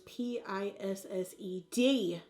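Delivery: P I S S E D, each letter said separately; spelled out letter by letter. Shown as a demonstration. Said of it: "Why did I spell it out?".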